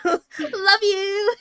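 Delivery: giggling through it; laughing. Real, not acted. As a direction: laugh while saying it. Laughing echo of line.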